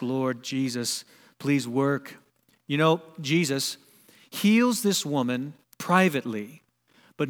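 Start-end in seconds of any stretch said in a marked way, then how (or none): 0.0-2.2 low, softened prayerful pleading; hushed plea. Acted. Believer crying out to Jesus in need, a hushed plea. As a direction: plead quietly in a lowered voice. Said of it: "cry out to him, plead".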